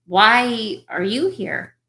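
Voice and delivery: WHY drawn out slowly and punched; stress on WHY. Shown as a demonstration. Acting student shows the coach's inflection drill, stress on WHY. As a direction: lean long on "Why", then finish the question. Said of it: "showing the inflection on each word".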